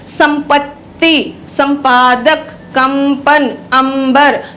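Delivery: संपत्ति, संपादक, कंपन, अंबर with a clear m before प or ब; careful word list, m sounded in संपत्ति and संपादक; anusvar as m. Shown as a demonstration. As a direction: close the lips on m in कंपन and अंबर. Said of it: "म जो है वो अनुस्वार है".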